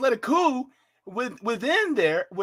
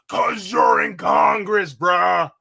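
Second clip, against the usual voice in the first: mock retort; 4 semitones lower, 6 dB louder, much slower than usual. Retorting to a congressman.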